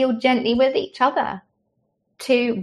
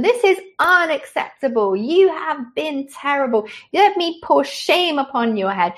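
mock angry parent; 5 semitones higher than usual. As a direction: tear into the squabbling kids like a furious parent. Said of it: "I could explode".

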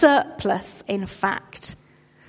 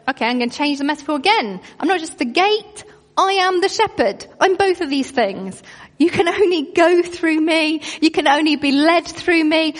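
voicing Jesus; 4 semitones higher than usual. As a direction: let Jesus announce it eagerly, quick and lifted. Voicing Jesus, raised pitch.

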